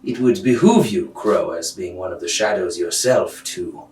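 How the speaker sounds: measured, condescending mentor voice; lofty shadow master. Acted. Game master voices Carnigal.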